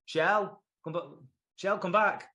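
dad calling Shell back. Retold or imitated. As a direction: call her back across the room.

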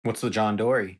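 lightly attempted Aussie accent; Australian accent. Podcaster practising slang for co-hosts, light Australian accent. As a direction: try the slang with a slight Australian twang. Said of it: "in Australian accents".

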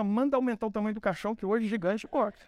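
gleeful order with a laugh; God to the angels, amused and triumphant. Retold or imitated. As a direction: laugh while calling the giant's end. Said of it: "olhou pros anjos e falou assim".

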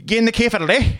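high-pitched garbled British mimicry; imitated British accent. Stranger repeating his question to a tourist, garbled British accent. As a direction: mangle it like an incomprehensible Brit. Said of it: "And he was like".

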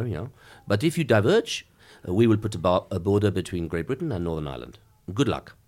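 lightly put-on French accent; a hint of a French negotiator accent. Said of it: "if your listeners can bear a French accent".

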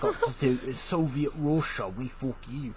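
badly faked Russian accent; rough first stab at a Russian accent; clumsy mock Russian accent; terrible Russian accent. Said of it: "That is a terrible accent".

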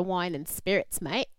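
put-on light Australian accent on mate. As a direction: toss in an Aussie mate. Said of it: "good Aussie accent, bro".

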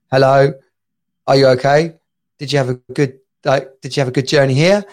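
mimicking a Brixton Jamaican nurse's accent, light and friendly; London Jamaican accent. Nurse greeting the patient, a light London Jamaican accent. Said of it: "in his deepest sort of London, Brixton, Jamaican accent".

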